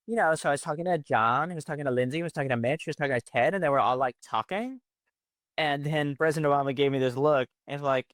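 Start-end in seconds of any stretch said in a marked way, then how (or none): 0.1-4.8 put-on light Valley Girl lilt with rising endings; Valley Girl accent, each line lifting up. Shown as a demonstration. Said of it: "you kinda have to do it in a Valley Girl voice".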